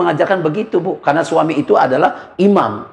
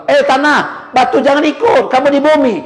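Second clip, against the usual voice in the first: higher and louder, a divine command; commanding voice of God; 11 semitones higher, 4 dB louder than usual. Acted. God ordering the stone to stay on earth, commanding.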